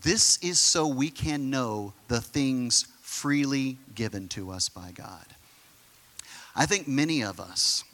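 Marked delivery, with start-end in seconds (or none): 0.0-5.3 scripture reading. Real, not acted. Reads scripture aloud to congregation.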